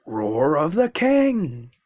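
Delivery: slow, drawn-out battle cry; attack name callout. Acted. Deku calls out his attack at Bakugo, slow battle cry. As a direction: announce the move like an anime hero.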